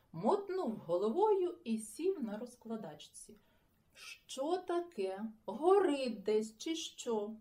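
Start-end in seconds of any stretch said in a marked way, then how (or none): 3.9-7.3 surprised. Acted. Just woken, doused with water.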